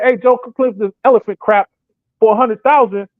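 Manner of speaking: upbeat, brighter pitch for a paid job; eager offer. Retold or imitated. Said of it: "But if somebody say".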